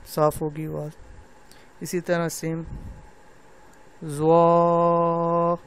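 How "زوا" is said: زوا held very long with an open mouth; drawn-out letter. Shown as a demonstration. Teacher reciting زوا slowly for students. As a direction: stretch زوا out clearly. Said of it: "اس کو بھی لوگ زواں پڑھتے ہیں".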